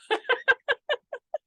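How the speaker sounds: high burst of laughter. Real, not acted. Laughs at own point.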